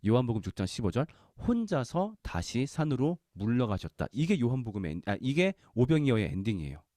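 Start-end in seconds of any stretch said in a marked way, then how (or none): 1.5-4.1 천천히 또박또박 성경 낭독; slow scripture reading. Shown as a demonstration. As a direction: read it slow and solemn. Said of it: "제가 한번 읽어보겠습니다". (천천히 엄숙하게 읽는 성경 구절)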